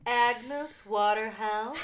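slow, hammed-up Agnes Waterhouse with a laugh; slow put-on voice. Pronouncing the witch's name for her cohost, slow and laughing. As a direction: drag the name out, half laughing. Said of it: "I was trying".

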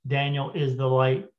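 lightly imitated monotone machine; computer voice. Spirit box makes its statement about Daniel, computer voice. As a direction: keep it on one note like a device. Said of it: "It said in that computer voice".

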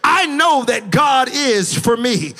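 "I" hit hard and slow; stress on I. Shown as a demonstration. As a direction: call out "I know that God is for me" with "I" stressed. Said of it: "open up your mouth and say it".

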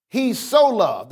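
"so" stretched slowly ahead of "loved"; stress on "so". Shown as a demonstration. Preacher explains God's love, stress on "so". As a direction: dwell on "so" for emphasis. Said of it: "There's an emphasis placed on the love".

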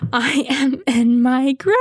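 slow, laughing despair; drawn out through laughter; mock-dying of embarrassment while laughing; laughing, dramatic. Real, not acted.

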